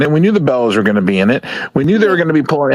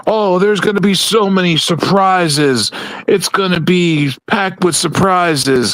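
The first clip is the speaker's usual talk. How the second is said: high, slow mock hype promo voice; mocking Triple H; 5 semitones higher, slower than usual. Podcaster mocking Triple H's surprise hype, high and slow. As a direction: ham up the empty promise, slowly. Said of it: "fucking Triple H saying".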